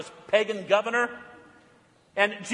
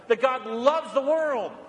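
slow earnest proclamation; slower than usual. Real, not acted. Repeated gospel proclamation.

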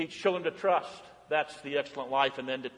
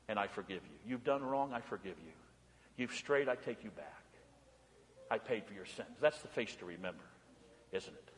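much softer, hushed and tender; soft tender preaching; 6 semitones lower, 9 dB quieter than usual. Acted. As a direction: draw the children in close with a hushed voice. Tender sermon to the children.

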